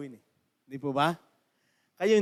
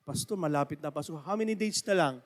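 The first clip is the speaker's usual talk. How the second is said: church member asking; 3 semitones lower, 4 dB quieter than usual. Retold or imitated. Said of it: "Ah, how many days na lang?".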